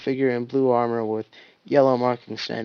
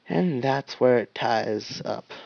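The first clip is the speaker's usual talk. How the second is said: slow statement; slower than usual. Acted. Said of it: "Caboose stated".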